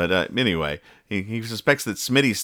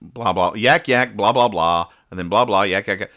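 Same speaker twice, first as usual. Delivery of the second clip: mock phone chatter; 3 dB louder than usual. Host reading the carpool's phone calls, mock chatter. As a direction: run of empty mock chatter. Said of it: "everybody is talking on their cell phones".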